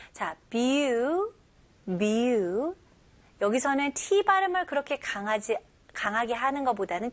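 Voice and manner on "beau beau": "beau" said slowly and clearly as "byoo". Shown as a demonstration. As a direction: sound out "beau" syllable by syllable. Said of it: "발음을 명확히 해주세요". ("beau"를 또박또박 천천히)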